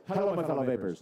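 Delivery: a light take on Dimitri's booming greeting; mock his big hello to the crowd; hint of a grand welcome; imitating Dimitri. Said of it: "Actually, he says it like this".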